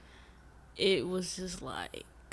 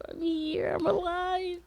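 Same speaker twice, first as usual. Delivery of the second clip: high excited declaration; 11 semitones higher than usual. Acted. Vlogger announcing her return, in a high excited voice. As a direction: pitch jumps way up, sing-song.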